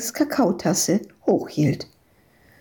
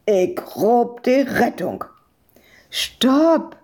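alarmed outcry; 3 semitones higher, slower than usual. A narrator's reading. Islanders argue over calling rescue for the child, alarmed. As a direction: cry out to halt the rescue. Alarmed exchange about guard dog.

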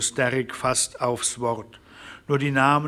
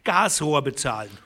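much higher, agitated voices; enraged ranchers; 7 semitones higher than usual. A narrator's reading. Ranchers quarrelling over the railroad's theft, higher and furious. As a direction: hurl outrage back and forth.

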